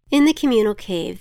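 usual speaking voice

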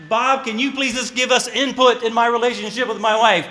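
a hint of an Indonesian accent, pleading; slight Indonesian accent. Indonesian brothers asking the pastor for advice, light Indonesian accent. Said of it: "hopefully I'm not giving an accent. Was I starting to give an accent?".

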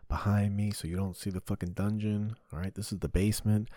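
ordinary delivery

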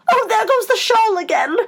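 very high-pitched Queen's exclamation; flustered high squeal; alarmed cry. A narrator's reading. Queen crying out as shawl flies.

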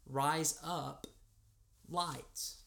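"Rise up, lights" spaced out in an American accent; American accent, a clear pause before "lights". Shown as a demonstration. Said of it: "say with my American accent".

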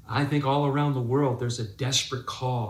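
usual speaking voice

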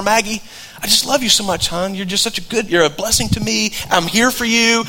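soft, loving words to a pet; tender to the dog. Retold or imitated. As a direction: coo it gently to little Maggie. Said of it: "explained to her".

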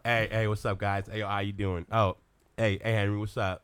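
Michael B. Jordan. Acted. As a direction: play a laid-back American actor. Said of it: "we're gonna reverse it".

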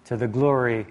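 measured, slow public Bible reading; scripture reading. Real, not acted. Preacher reading Philippians to the congregation, measured scripture reading. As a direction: read it out deliberately, phrase by phrase.

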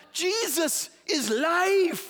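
Danny Rojas style shout. Retold or imitated. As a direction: shout it like a rallying cry. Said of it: "And here's John".

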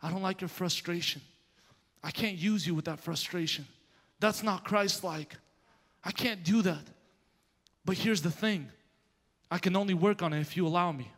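soft, measured voice of God; hushed, unhurried correction, retold; God's quiet correction. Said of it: "he's right there in the room".

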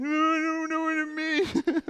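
put-on high, slow whiny kid; little boy voice. Dad imitating his son who doesn't know the family motto. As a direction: play the clueless little boy.

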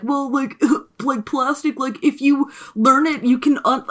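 slow, halting mock-explainer; patronizing, drawn-out imitation; condescending. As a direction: imitate someone talking down to you. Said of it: "condescending to me".

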